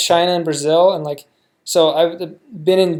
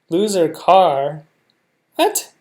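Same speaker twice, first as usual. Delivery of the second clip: slow, louder questioning "Loser car?"; puzzled disbelief; 5 dB louder, much slower than usual. Real, not acted. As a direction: ask "Loser car?" drawn out and baffled. Reacting to show phrase.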